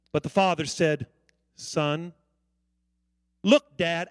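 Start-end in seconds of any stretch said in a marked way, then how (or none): 1.5-2.1 lower, soft "Son."; gentle father. Retold or imitated. Father calmly answering his son, soft and gentle. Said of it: "in gentleness and compassion said". 3.4-4.1 disrespectful attitude. Retold or imitated.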